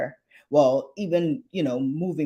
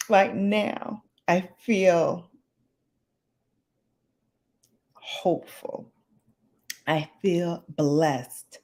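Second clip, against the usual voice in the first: holding back tears. Real, not acted. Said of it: "I'm trying not to cry, y'all".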